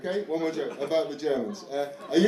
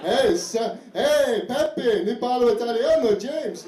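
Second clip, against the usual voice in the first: high, loud Italian gushing; hammed-up excited praise; excited congratulating; 7 semitones higher, 6 dB louder, much slower than usual. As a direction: gush with loud delight, like impressed Italians. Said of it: "people are really congratulating you".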